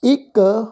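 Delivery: ਇੱਕ on its own, ending in k; correct pronunciation demo. Shown as a demonstration. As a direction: set ਇੱਕ apart as a separate word. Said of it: "ਅਸੀਂ ਇਸ ਦਾ ਉਚਾਰਨ ਕਰਾਂਗੇ". (ਇੱਕ ਦਾ ਵੱਖਰਾ ਸ਼ੁੱਧ ਉਚਾਰਨ)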